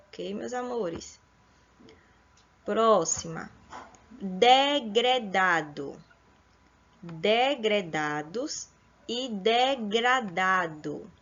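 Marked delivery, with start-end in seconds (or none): 4.1-11.1 Degredado and degradado said slowly, syllable by syllable; teacher spelling out degredado and degradado slowly; slow careful pronunciation. Shown as a demonstration. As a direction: draw out each vowel to contrast them. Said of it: "escrita aí com pronúncia".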